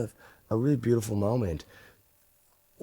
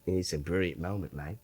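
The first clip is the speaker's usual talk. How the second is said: imitated Aussie cameraman; Australian accent; 2 semitones lower, 6 dB quieter than usual. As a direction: say it as an Australian mate would. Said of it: "in his Australian accent".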